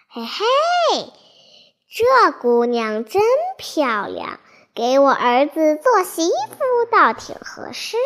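put-on sly old toad chuckling; gloating old toad. Old toad cackles over girl.

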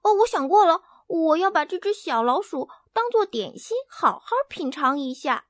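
high, loud announcement fading back. Acted. Hen Hena declaring the mouse his snack, loud. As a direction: proclaim it boldly. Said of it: "赫纳大叫起来".

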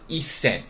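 一千 as Japanese "issen", doubled s; small tsu dropped. Shown as a demonstration. Teacher models Japanese numbers for students, small tsu in 一千. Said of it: "它不读什么呀".

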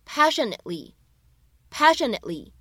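"passionately" with the t only mouthed, no puff of air; just shape the t in "passionately" without releasing it; 只做口型的 passionately; unreleased t. Shown as a demonstration. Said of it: "可以只做口型就可以了".

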